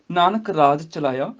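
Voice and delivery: slow, unbroken Nanak ਰਾਜ ਚਲਾਇਆ; pause after ਚਲਾਇਆ. Shown as a demonstration. Teacher showing where to rest, slow line halting after ਚਲਾਇਆ. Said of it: "ਚਲਾਇਆ ਤੋਂ ਬਾਅਦ ਰੁਕਣਾ".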